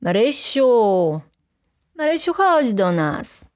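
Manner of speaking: drawn-out call from upstairs. A narrator's reading. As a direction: call her name as if from afar. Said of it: "który z trzeciego piętra wołał".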